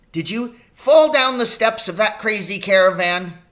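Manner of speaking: a brisk country doctor fussing over his patient; little old doctor voice. A narrator's reading. Doctor asking his injured patient about the pain.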